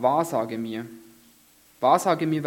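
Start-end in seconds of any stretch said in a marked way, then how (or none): 1.8-2.4 insistent king begging the medium; urgent repeated plea. Acted. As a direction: push the second wahrsage mir up and out. Saul repeats his plea, pressing harder.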